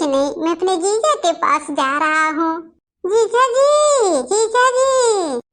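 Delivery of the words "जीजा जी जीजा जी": drawn-out calling, high. Acted. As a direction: call him from across the house. Boy calls out to brother-in-law. (ज़ोर से पुकारना)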